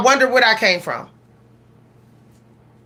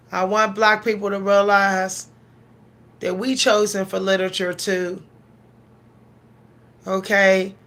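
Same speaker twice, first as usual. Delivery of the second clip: holding back tears; 2 semitones lower, 3 dB quieter than usual. Real, not acted. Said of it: "I'm trying not to cry".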